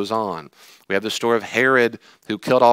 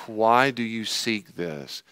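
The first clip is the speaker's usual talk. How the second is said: weary question; 3 dB quieter, much slower than usual. Acted. Jesus voiced, weary after sigh.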